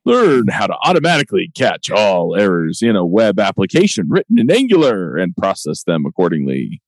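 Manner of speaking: booming fighting game announcer. Shown as a demonstration. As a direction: read it like a big title announcer. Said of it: "I should pull out my announcer voice".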